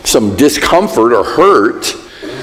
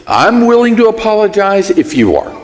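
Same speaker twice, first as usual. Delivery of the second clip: ceasefire apology; 7 semitones higher than usual. Retold or imitated. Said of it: "It goes like this".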